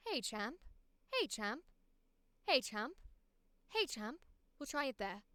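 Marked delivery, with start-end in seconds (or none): 0.1-4.2 lower British posh accent. Shown as a demonstration. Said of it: "I need to go a little lower".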